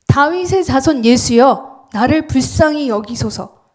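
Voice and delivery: a blind beggar's loud, slow proclamation; proclaiming shout. Acted. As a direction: cry it out as a proclamation. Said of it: "소리치는 거예요".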